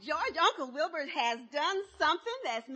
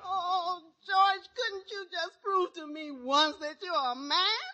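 slow, wounded pretend sob; drawn-out put-on weeping; fake crying; slower than usual. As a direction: shame him through the tears. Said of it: "Now, stop that blubbering".

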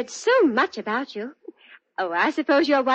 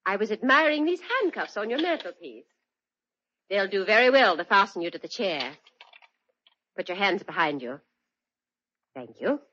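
cold menace; 3 semitones higher than usual. Acted. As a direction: drop the silly act and threaten him coldly. Drops the act, holds him at gunpoint.

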